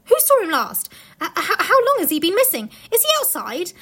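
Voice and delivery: urgent worried questions, half laughing; alarmed questions. Acted. Everyone asking in alarm.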